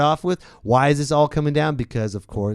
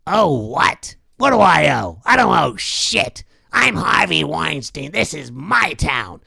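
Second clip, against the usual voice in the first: mogul voice; 4 semitones higher, 4 dB louder, slower than usual. Retold or imitated. Weinstein angry.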